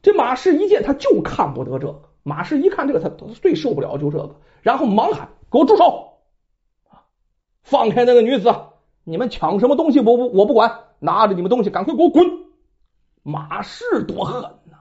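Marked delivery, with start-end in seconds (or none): 5.5-12.3 loud, commanding shout at the bandits; stern command. Acted. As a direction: order them off with authority. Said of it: "那声音就带着威严". (威严地大声喝止)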